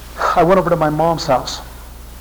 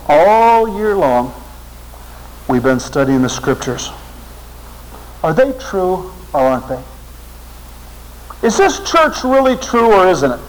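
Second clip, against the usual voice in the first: earnest plea; 5 semitones higher than usual. Retold or imitated. Girl challenges the seminary class.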